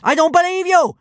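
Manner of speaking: high, loud, furious yell; little girl's yell. A narrator's reading. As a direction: yell it in disbelief, pitched right up. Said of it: "yelled the little girl".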